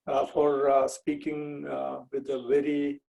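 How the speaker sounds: Indian English with a Kerala accent. Real, not acted. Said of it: "I'll be speaking with an accent".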